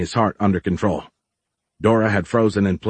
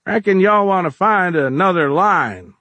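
calling out; 10 semitones higher, 4 dB louder than usual. A narrator's reading. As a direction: call it over to the bunglers. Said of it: "called from the front".

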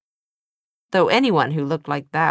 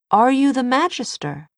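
pressing the question higher and louder; vehement; 9 semitones higher, 5 dB louder than usual. Acted. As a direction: insist hard on you. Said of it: "surprised by her vehemence".

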